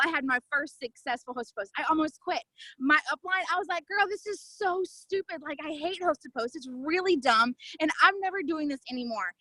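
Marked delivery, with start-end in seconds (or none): 3.9-9.3 retold exasperated griping. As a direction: gripe to a girlfriend, stretching it out. Retold griping to her upline.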